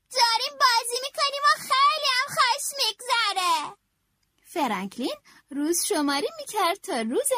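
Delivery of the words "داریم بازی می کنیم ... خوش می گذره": put-on higher, cheerful child voice; cheerful Franklin. A narrator's reading. Franklin telling Bear they are having fun, a cheerful, higher voice. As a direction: sound happy and carefree. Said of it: "فرانکلین گفت".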